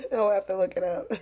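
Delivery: giggling while speaking; laughing. Real, not acted. Repeats line while laughing.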